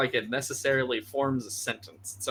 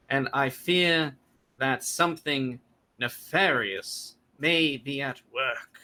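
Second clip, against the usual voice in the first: halting sheriff. Acted. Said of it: "just kinda stops randomly in his sentences".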